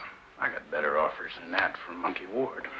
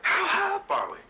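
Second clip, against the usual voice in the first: much higher, louder anxious frog; joke-teller's squeaky frog asking; 4 dB louder than usual. Retold or imitated. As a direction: pipe it up like a worried frog. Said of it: "he says, uh".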